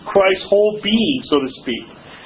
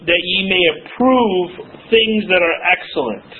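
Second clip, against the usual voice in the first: reading the verse. Shown as a demonstration.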